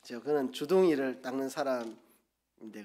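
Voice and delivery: ordinary delivery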